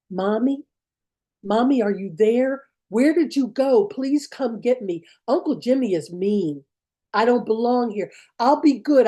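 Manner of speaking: lightly voiced little girl begging for her mother; pleading child. Little girl on pretend phone to mommy, lightly acted pleading. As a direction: plead like a child, pitch lifting on the appeals.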